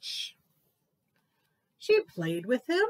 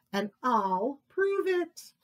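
slow, a touch higher, determined; determined little tiger; 5 semitones higher, slower than usual. Acted. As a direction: say it like a stubborn cub.

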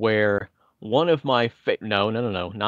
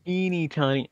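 cutesy high voice; 5 semitones higher than usual. Shown as a demonstration. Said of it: "it's very descriptive".

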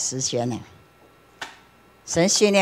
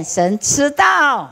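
solemn slow emphasis; 7 semitones higher, much slower than usual. Real, not acted. Solemn climax.

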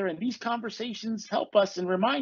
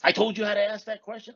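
acted exasperation, building to a louder complaint; frustrated; 4 dB louder than usual. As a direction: vent at people who won't listen. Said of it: "I get frustrated. I get upset".

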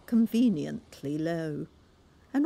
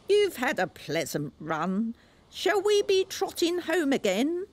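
high, louder call to the oysters; carpenter calling; 9 semitones higher, 3 dB louder than usual. A narrator's reading. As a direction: call out across the beach. Carpenter speaks.

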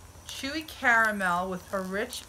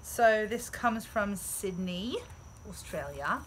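Australian accent; 3 dB quieter, slower than usual. Shown as a demonstration. Shares a gift from Sydney in a mock Australian accent. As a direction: try out an amateur Australian accent. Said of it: "That's the best I can do with my Australian accent".

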